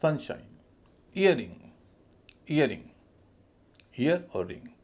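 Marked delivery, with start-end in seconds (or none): 0.0-0.6 सन higher, शाइन lighter; stress on सन. Shown as a demonstration. Teacher modelling a compound noun, stress on सन. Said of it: "सन पर थोड़ा अधिक stress है". 1.2-2.8 ईयर stressed, रिंग falling lightly; weight on the first half of ईयरिंग. Shown as a demonstration. Teacher modelling a compound noun, stress on ईयर. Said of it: "ईयर पे ज़्यादा stress है".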